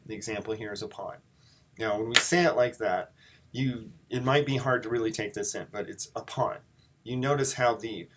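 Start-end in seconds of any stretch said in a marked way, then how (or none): 0.8-1.2 "upon" with a light first syllable and stressed "on"; iambic stress. Shown as a demonstration. Teacher giving class the example iamb, stress on second syllable of "upon". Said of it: "one light stress followed by a heavy stress". 6.1-6.6 "upon" with weight on the final "on"; light "up", then a firmer "on" in "upon"; stress on ON. Shown as a demonstration. Teacher showing class how "upon" is said, stressed on "on". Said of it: "on is being hit harder".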